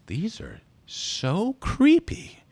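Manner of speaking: high, loud, drawn-out distaste; mock creeped-out. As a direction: stretch it slowly in exaggerated horror. Actress turns and confides her disgust.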